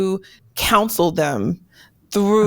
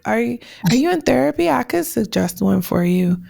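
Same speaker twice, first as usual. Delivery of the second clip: slick remark; 2 semitones higher than usual. Retold or imitated. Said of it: "say something slick like".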